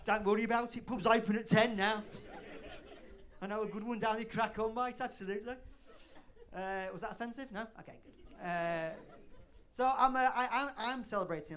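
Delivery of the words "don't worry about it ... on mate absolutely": loud, lightly voiced British pub mate; hearty British bloke's reassurance, lightly hammed-up; matey British drinker. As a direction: egg a mate back into drinking. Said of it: "you tell a British person".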